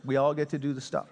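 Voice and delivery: quick repeat. Shown as a demonstration. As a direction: rattle the phrase off again, lightly. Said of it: "I love that phrase".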